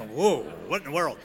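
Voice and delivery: retold shock. His retold shocked reaction.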